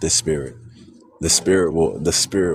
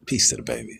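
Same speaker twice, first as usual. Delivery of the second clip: whispered; 5 dB quieter, faster than usual. Real, not acted. Blessing a sleeping baby.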